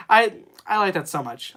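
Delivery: usual speaking voice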